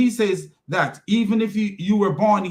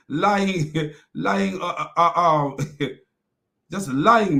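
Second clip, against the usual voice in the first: chuckling through the word lying; laughing; much slower than usual. Real, not acted. Mocking the preacher's lies, laughing. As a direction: laugh it out in disbelief.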